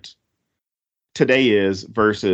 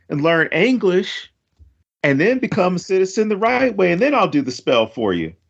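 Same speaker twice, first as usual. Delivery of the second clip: higher, haughty put-down from an offended spirit; lightly voiced scornful spirit scolding a bad speaker; snobbish spirit; 5 semitones higher than usual. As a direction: lecture the spell-caster, slowing right down on learn English. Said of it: "I could imagine the spirit up there going".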